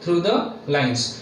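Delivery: through the lines drawn out word by word; slow and deliberate. Shown as a demonstration. Teacher to shorthand students, slowly stressing the rule. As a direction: spell it out slowly for the class. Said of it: "Through, through the lines outlines निकालना है".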